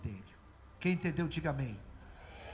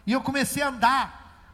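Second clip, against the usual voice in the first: loud, higher, fervent testimony; preaching at full force; 5 semitones higher, 12 dB louder than usual. Acted. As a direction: proclaim it to the church.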